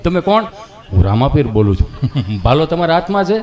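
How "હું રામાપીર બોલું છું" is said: low, weighty god voice; Ramapir voice. Acted. Ramapir actor tells Gabho who is calling, low and solemn. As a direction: speak like the deity himself.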